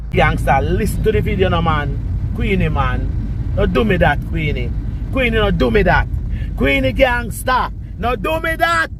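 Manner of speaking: building from loud scolding to a high, pleading cry; rising angry rant. Real, not acted. Scolding Queenie on video, rising.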